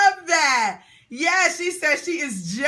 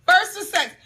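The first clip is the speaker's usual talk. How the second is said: ordinary talk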